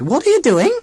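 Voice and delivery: put-on high, stiff alien old lady; robot aunt voice. A narrator's reading. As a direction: speak like a cold machine aunt.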